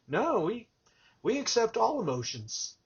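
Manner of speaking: retold tender reassurance; gentle reassurance. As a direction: wave away the apology kindly. Reassuring the apologetic crying clerk.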